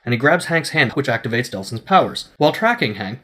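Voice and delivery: ordinary talk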